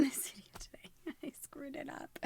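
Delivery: hushed, breathless whisper with a laugh; whispered aside. Real, not acted. Vlogger whispering to herself after fumbling her intro. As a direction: whisper it under your breath.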